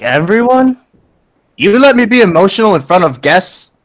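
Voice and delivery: high, rising disbelief; incredulous father. Acted. Father learns guests saw him emotional, incredulous. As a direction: pitch it up in mock indignant surprise.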